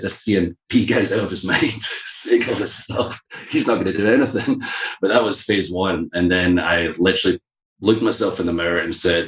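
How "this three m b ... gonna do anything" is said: mock dismissive. Voicing his dismissive doubters, amused.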